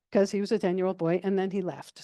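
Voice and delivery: ordinary delivery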